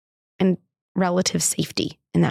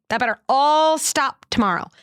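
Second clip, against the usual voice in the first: stern threat; 7 semitones higher than usual. Shown as a demonstration. Mother showing the harsh reply she wanted to give her son. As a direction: lay down the law like a strict parent. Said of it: "what did I wanna say?".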